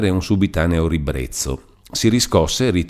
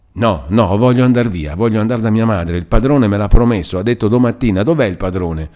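higher, louder agitated pleading; distressed insistence; 5 semitones higher, 5 dB louder than usual. A narrator's reading. Captive begging to go home to her mother, distressed and insistent. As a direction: insist urgently like a desperate captive.

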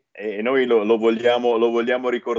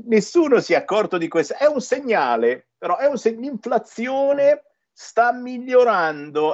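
sarcastic; 6 semitones higher than usual. Retold or imitated. Mock optimism about the economy.

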